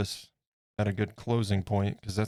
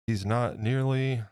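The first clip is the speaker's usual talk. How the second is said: slow words around a paintbrush in mouth; 2 semitones higher, slower than usual. Real, not acted. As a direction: mumble past a paintbrush in mouth. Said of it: "Sorry, I had a paintbrush in my mouth".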